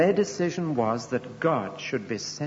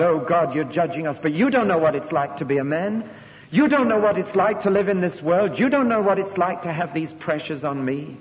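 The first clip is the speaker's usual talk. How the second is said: loud, higher pleading protest against God; 4 semitones higher, 5 dB louder than usual. Acted. People at the last judgment loudly accusing God. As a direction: hurl the complaint upward, building.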